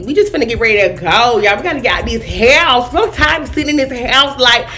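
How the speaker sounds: ratchet voice. Acted. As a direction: lay on the attitude, hood-girl style. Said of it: "talking like I was ratchet".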